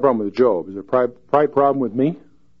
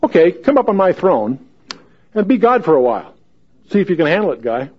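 taunting God paraphrase; 6 semitones higher, 4 dB louder than usual. Retold or imitated. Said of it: "he's saying".

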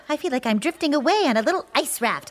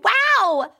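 surprised; 10 semitones higher, 4 dB louder than usual. Real, not acted. Amazed at own joke.

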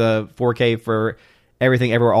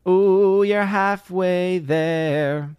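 impressed ooh; 7 semitones higher, much slower than usual. Real, not acted. Reacting to viewer's hours.

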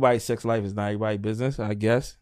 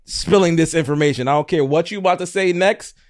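higher, emphatic mock-annoyed protest; retold irritation; 5 semitones higher, 4 dB louder than usual. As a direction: cut off the date with exasperation. Retold irritation on birthday date.

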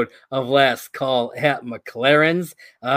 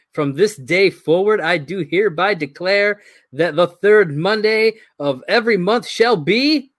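king's proclamation; 4 semitones higher, 3 dB louder than usual. Acted. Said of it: "King of England".

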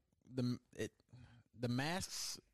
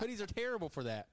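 laughing; 9 semitones higher than usual. Real, not acted. Laughing about hoodies.

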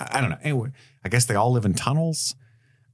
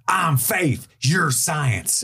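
higher-pitched, over-obvious announcement; mock blunt declaration; 6 semitones higher, much slower than usual. Mocking the episode for spelling out its theme, over-obvious.

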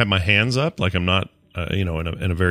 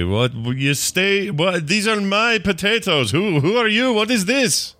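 rising, higher-pitched outrage at the thief; indignant confrontation; 10 semitones higher, slower than usual. Acted. Farmer confronting old man over potatoes, rising indignant questions. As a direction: climb higher with each question, incredulous.

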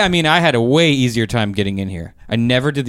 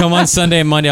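laughing; 5 semitones higher, 4 dB louder, faster than usual. Retold or imitated. Repeating Bobby's line, laughing.

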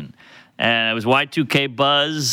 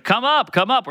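coaxing woman voice; 10 semitones higher than usual. Retold or imitated. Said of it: "she's like".

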